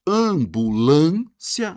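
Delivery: teacher splitting "Ambulância" into slow, separate syllables. Shown as a demonstration. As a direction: stretch each syllable of "Ambulância". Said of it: "palavras separadas em sílabas".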